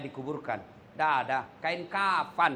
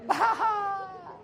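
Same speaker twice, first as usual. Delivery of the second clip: high laugh. Real, not acted. Preacher laughing at his own joke to the congregation, high laugh.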